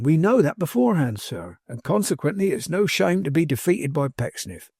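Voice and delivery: lightly folksy servant, firmly reasoning; a hint of homespun servant's insistence; lightly voiced plain-spoken manservant. Manservant reassuring his master about Pecksniff, lightly folksy and firm.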